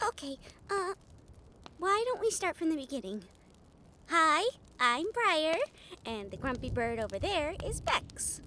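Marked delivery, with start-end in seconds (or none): 4.1-5.6 gentle greeting. Acted. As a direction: introduce yourself slowly to calm them. Gentle introduction to stranger.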